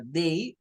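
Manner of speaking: "Day" said with a long A vowel, like dei; day with A sound. Shown as a demonstration. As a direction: say "Day" rhyming with say. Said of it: "su pronunciación normal sería así".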